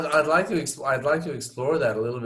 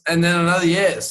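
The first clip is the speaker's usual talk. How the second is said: higher and louder, tacked on; emphatic extra yes; 6 semitones higher, 6 dB louder, faster than usual. Pretend. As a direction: throw in one more yes with a punch. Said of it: "I threw another yes in there".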